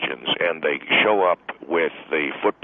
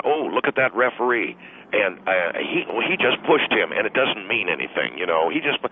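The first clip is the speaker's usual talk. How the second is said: higher, chattering mock wife; 4 semitones higher than usual. Husband mimics his wife's game chatter, pitched higher. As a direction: imitate the wife rambling about the referee. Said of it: "it just continues on and on".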